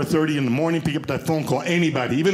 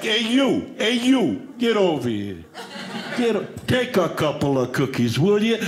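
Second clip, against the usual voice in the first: put-on Italian accent. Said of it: "they're Italian".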